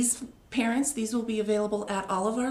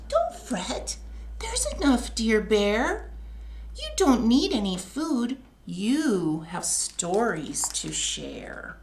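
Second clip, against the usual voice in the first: a touch squeaky mouse, ending in a slow whisper; a little mouse soothing Bear; Mouse's comforting voice; slower than usual. Acted. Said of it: "Mouse squeaks".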